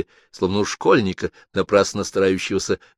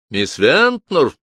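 calling out; 6 semitones higher, 5 dB louder, much slower than usual. Acted. Calling secretary again.

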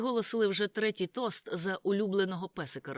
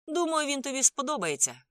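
high, loud, upbeat reassurance; encouraging; 9 semitones higher, 6 dB louder than usual. A narrator's reading. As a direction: cheer a friend on with a smile. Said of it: "підбадьорливо усміхнувшись".

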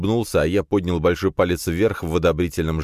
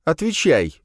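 higher, louder barked command; growled order; 11 semitones higher, 3 dB louder, slower than usual. A narrator's reading. Nadya growls at the lad to answer. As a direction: snap an order. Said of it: "рыкнула на него Надя".

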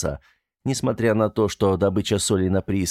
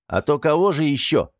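smirking; 7 semitones higher, 3 dB louder than usual. A narrator's reading. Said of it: "хмыкнул часовой".

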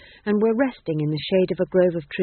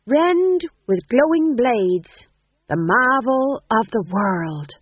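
grand declamation; 4 semitones higher, 5 dB louder, slower than usual. A narrator's reading. Grand slow incantation.

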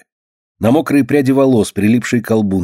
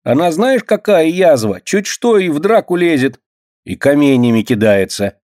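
put-on tattling kid; 6 semitones higher than usual. A narrator's reading. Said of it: "добавляет Трошка".

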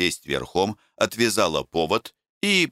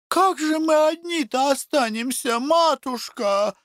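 frightened pleading. Acted. Women beg Taisia not to leave them, high and frightened. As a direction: beg in a voice not your own. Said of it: "взмолились бабы не своим голосом".

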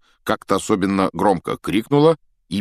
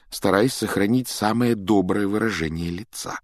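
ordinary talk

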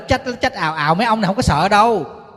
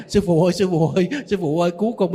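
panicked call for help; faster than usual. Retold or imitated. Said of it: "gọi điện cho thầy".

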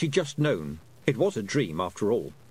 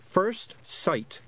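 breathed; 8 semitones higher than usual. A narrator's reading. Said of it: "breathed Tiffany".

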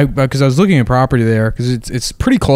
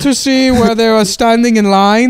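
put-on German accent; 11 semitones higher than usual. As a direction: ham up a German tourist. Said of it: "pretend to be German tourists".

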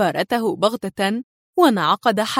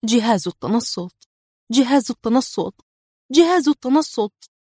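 the thought grows more frightening; echoing dread. A narrator's reading. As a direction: inner echo building into alarm. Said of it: "تتردد في أعماقه على نحو مخيف".

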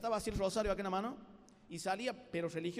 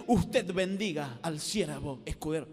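pompous formal prayer; 5 semitones lower, 4 dB louder, slower than usual. Retold or imitated. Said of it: "y hablaba de así".

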